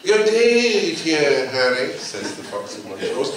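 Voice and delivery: slow, loud sly fox greeting. Acted. Fox of Montrose greeting Harry on the road, slow and sly. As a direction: draw it out like a cunning fox.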